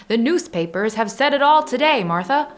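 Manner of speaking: lightly voiced old-timey businessman; a hint of a 1930s gent reading the news. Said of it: "like, just talking".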